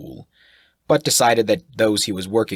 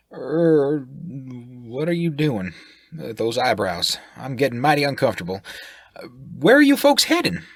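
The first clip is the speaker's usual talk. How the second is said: brash sailor voice; 6 semitones higher than usual. Acted. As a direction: fire questions like a brash sailor. Sailor unnerved by eyebrows.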